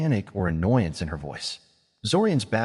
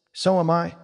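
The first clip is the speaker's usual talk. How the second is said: bright, laughing, pitched up; happy laugh; 8 semitones higher than usual. A narrator's reading. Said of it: "said Silver Lake with a happy laugh".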